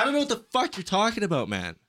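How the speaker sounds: high, quick exasperated outburst; rushed mock protest; exasperated retort. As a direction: act out a baffled, fed-up comeback. Retold quarrel with drunk passenger.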